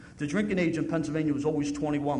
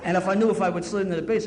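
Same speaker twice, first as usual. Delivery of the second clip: laughing; 4 semitones higher, 6 dB louder than usual. Real, not acted. Laughing while telling story.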